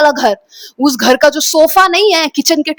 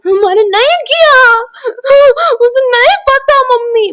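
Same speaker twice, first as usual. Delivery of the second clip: high, sobbing plea; crying denial; 11 semitones higher, 3 dB louder than usual. Retold or imitated. Daughter crying to her mother that she didn't do it, sobbing plea. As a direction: beg through tears, pitch way up. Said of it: "मैं बस ऐसे रो रही हूँ".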